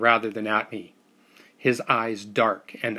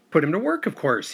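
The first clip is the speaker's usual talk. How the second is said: laughing reply; 5 semitones higher than usual. Acted. Uncle laughs off his nephew's question, mildly amused. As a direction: toss it off with a laugh at the idiotic question. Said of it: "he laughed".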